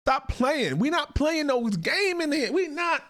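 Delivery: playfully strict rebuke; mock stern scolding. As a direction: lay down the law like a fed-up jailer. Ranting at inmates as if in charge.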